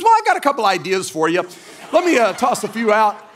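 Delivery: lightly voiced daughter pitching her ideas; young daughter. Daughter offers dad story ideas, imitated child voice. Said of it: "or she goes".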